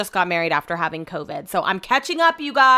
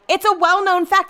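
mocking know-it-all; 9 semitones higher, 4 dB louder than usual. Mocking friend's know-it-all claim.

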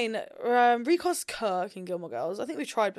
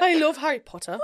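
loud laughing mimicry of the attempt; mocking imitation; 5 semitones higher, 5 dB louder than usual. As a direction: shout it back laughing. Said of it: "So you just went back".

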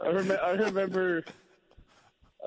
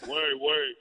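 Bruce Bochy impression; slower than usual. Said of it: "great Bruce Bochy impersonation".

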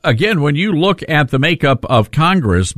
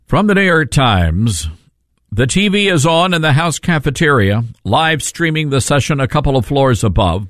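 breaking news anchor voice. Pretend. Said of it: "my breaking news anchor voice".

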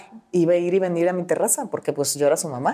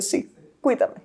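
eagle's pleading look; 5 semitones higher, slower than usual. Pretend. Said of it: "me veía con ojitos de".

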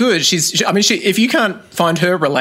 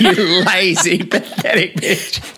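mock abusive coach; much slower than usual.

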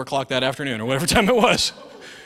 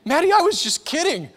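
sheepish dad; 12 semitones higher, 3 dB louder than usual. Retold or imitated. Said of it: "when I say".

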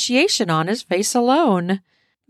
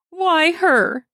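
much higher insistent question; demanding; 10 semitones higher than usual. A narrator's reading. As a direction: demand an answer. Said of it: "she exerts in a demanding voice".

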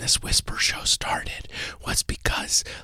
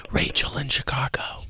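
hushed whispering host voice; 4 semitones lower than usual. Acted. Host whispering to his co-host on the Whisper Show. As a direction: keep the whole show in a whisper.

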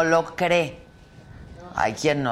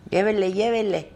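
hyped fairground barker; 4 semitones higher than usual. Pretend. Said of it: "grábate un promo".

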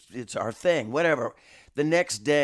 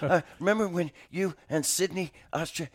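mildly awkward fanboy stammer, pitched up; Chris Farley moment; 5 semitones higher than usual. Retold or imitated. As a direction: fumble it like a starstruck fan, higher. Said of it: "pulling a whole Chris Farley moment".

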